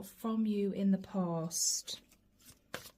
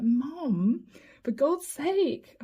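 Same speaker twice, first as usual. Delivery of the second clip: exasperated protest; 4 semitones higher, much slower than usual. Retold or imitated. Daughter retelling exasperation at mum.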